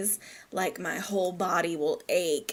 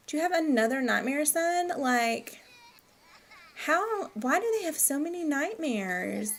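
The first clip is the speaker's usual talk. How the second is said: put-on doting baby talk; 6 semitones higher than usual. Baby-talk to the Sim toddler.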